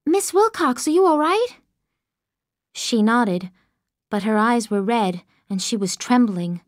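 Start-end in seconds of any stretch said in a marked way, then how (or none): 0.1-1.6 high, alarmed concern; worried cry. Acted. Girl rushing to shaken Miss Wilcox, alarmed. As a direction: rush to her, frightened.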